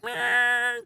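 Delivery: high, bored mock grunt of indifference; mock uncaring "meh"; dismissive meh. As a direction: toss off a lazy shrug-sound. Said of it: "And they're fucking like".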